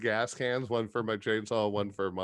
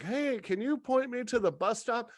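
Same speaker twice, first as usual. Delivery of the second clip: higher, a hint of a sweet old woman; lightly voiced old lady; 9 semitones higher than usual. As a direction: ask sweetly, faking innocence. Imitating an old woman asking.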